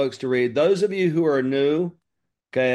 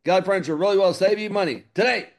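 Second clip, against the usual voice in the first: quick, lightly raised TV pitchman; imitating Mattress Mac; 4 semitones higher, faster than usual. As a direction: rattle off the slogan like a furniture salesman. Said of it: "This is how he talks too".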